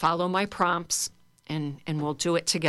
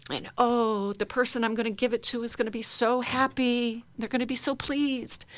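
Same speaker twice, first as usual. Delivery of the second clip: admiring the flowers; 4 semitones higher than usual. Shown as a demonstration. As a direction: linger on each word as if it smells wonderful. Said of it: "and you sort of just, you know".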